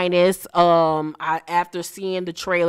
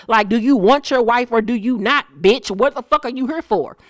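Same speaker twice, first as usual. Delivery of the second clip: annoyed rant; 5 semitones higher, 5 dB louder than usual. Real, not acted. Ranting at a singer.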